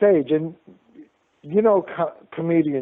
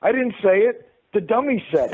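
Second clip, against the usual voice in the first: higher-pitched mock self-defense; mock innocent protest; 5 semitones higher than usual. Ventriloquist excuses himself to angry husband, mock innocent. Retold excuse blaming the dummy.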